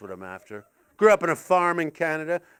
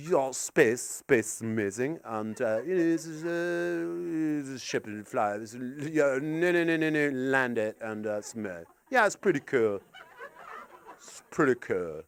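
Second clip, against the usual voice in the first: low, soft, halting mumble; Elon Musk; 4 semitones lower, 6 dB quieter than usual. Acted. Tech billionaire talking about space, low halting mumble. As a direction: stammer softly through half-formed thoughts. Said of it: "trying to work on an Elon Musk impression".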